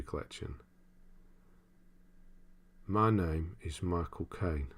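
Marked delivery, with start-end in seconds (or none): 2.9-4.7 slow, badly faked Cockney impression; measured, drawn-out London delivery, not quite landing; Michael Caine. Streamer attempting a famous actor's voice, slow and hammy. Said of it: "I can't do it at all".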